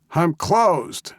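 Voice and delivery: put-on high-pitched crabby old codger; crabby old man yell. A narrator's reading. Old man shooing off visitors in a limo, crabby yell. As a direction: call it out like a cranky old man. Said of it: "he yelled in his best crabby old man voice".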